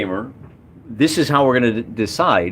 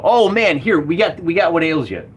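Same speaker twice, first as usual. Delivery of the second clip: enthusiastically friendly; 5 semitones higher than usual. Acted. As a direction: play the orc as your instant best pal, upbeat. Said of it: "enthusiastically friendly".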